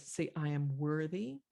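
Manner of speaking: lightly voiced mother with a rising end; mother coaching child. Mother to little girl, lightly voiced coaching. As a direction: prompt a child to repeat it. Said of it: "the mother says".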